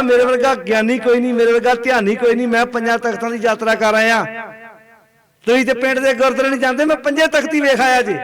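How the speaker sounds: lightly acted brag, gathering pitch; mock boasting. Pilgrim bragging to villagers about five Takhts, mock boastful. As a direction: imitate a proud pilgrim showing off. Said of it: "ਹੰਕਾਰ ਵੱਧ ਗਿਆ".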